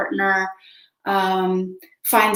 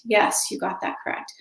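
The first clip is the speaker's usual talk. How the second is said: repeated softly, nearly whispered; a hushed, mostly voiceless repeat; quiet echo; 5 dB quieter than usual. Retold or imitated. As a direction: breathe it out as a soft echo. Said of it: "Until they're saying".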